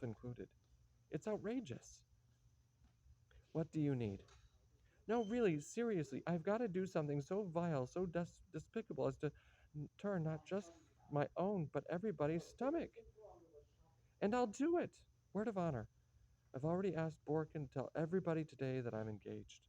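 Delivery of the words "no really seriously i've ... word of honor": agitated outburst. Acted. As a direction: spit out the disgust at himself, building. Agitated self-loathing outburst.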